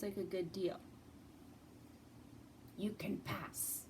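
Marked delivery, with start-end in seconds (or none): 2.8-3.8 slow, menacing troll voice; lightly voiced mean troll. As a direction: drag it out like a troll guarding his bridge. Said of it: "a mean troll".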